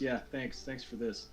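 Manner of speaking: mildly sarcastic, understated thanks; a touch of dry sarcasm. Acted. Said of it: "she sarcastically says".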